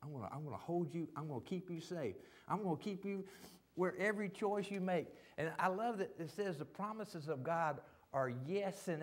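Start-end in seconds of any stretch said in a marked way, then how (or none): 0.1-5.1 heaven's gentle promise. Retold or imitated. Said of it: "all heaven extends its power out and say".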